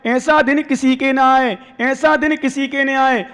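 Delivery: slow recitation. Retold or imitated. Teaching a phrase to repeat.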